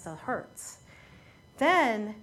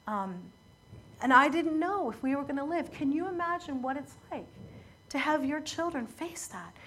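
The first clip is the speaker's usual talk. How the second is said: mildly voicing a crying mother's plea; understated retelling of a sobbing victim; retold sobbing. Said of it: "She's sobbing while she says that".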